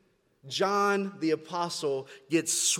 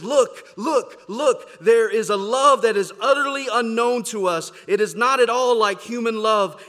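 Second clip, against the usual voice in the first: fervent proclaiming; 2 semitones higher, 5 dB louder than usual. Retold or imitated. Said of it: "one guy said it like this".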